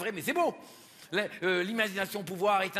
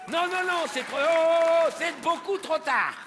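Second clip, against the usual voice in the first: mock disappointment; 5 semitones higher than usual. Mock scolding the audience.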